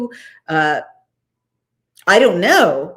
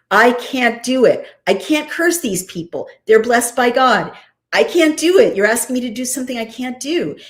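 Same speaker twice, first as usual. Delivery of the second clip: insistent protest, climbing higher and louder; emphatic refusal; 4 semitones higher, 4 dB louder than usual. Acted. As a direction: plead that it is impossible, with rising force. Acted refusal of the king's offer.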